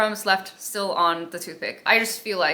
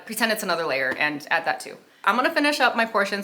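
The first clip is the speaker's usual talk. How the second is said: talking while chewing; mouth full. Real, not acted. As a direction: speak around a mouthful of cake. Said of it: "I stopped talking with my mouth full".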